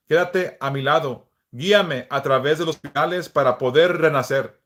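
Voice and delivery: earnest spoken prayer, unhurried; a devout plea to the Saint. Acted. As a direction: pray it with devotion, feeling each plea. Leads a prayer aloud.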